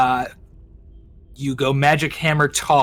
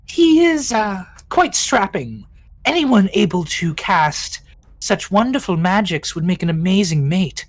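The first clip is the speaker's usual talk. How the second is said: swooning queen voice; 4 semitones higher than usual. Acted. Queen gushing about mate.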